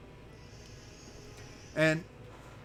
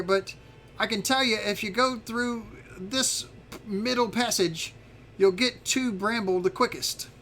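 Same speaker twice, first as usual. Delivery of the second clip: lightly voiced dragon, a bit higher; a hint of a dragon guide, pitched up; helpful little dragon; 6 semitones higher than usual. Little dragon giving visitors directions to Bramble, lightly put-on higher voice.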